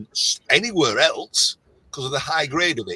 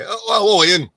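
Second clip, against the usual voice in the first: lightly mimicked, higher, louder greeting; imitating phone greeting; 7 semitones higher, 6 dB louder than usual. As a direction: mimic someone recognising the caller. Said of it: "no matter who I phone up".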